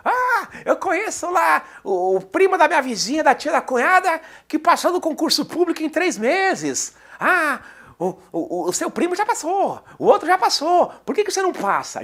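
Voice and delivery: high, shrill-free nosy aunt voice pitched well up; nagging aunt. Retold or imitated. Aunt nags the student at year's end, in a high mocking voice. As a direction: play the prying aunt at the holiday table.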